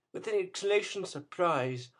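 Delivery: usual speaking voice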